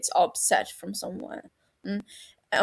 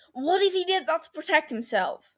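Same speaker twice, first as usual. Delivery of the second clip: 1 pointed question; 9 semitones higher than usual. A narrator's reading. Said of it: "Peter asks".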